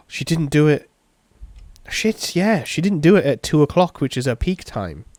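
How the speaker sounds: high, loud burst of disbelief; shocked realisation. Real, not acted. Reader realising she missed her peak time, shocked. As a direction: blurt it out loud and high as it dawns. Reader reacts to the clock mistake.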